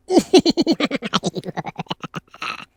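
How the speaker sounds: high, loud laugh at own slip; burst of laughter. Real, not acted. Laughing at herself for almost saying the wrong film title. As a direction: crack up out loud.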